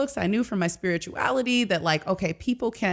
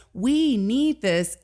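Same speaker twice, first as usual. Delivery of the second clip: slow, higher, heartfelt plea without real tears; retold tearful plea; 5 semitones higher, much slower than usual. Student recalling crying in class, imploring. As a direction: stretch it out as an imploring appeal. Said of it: "I'm literally sitting in class crying".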